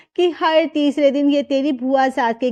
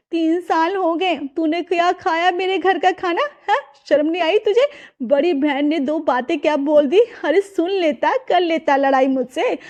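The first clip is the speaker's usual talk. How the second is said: higher, faster hurt reproach; scolding elder sister; 3 semitones higher than usual. Acted. Elder sister scolding her brother at dinner: higher, hurt reproach. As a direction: scold him like a wounded big sister, pitch rising.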